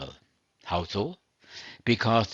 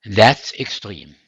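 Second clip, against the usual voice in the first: slow, loud mock protest; imagined objection; 12 dB louder, slower than usual. Preacher voicing a doubting listener's objection, loud and slow. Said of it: "you may be thinking".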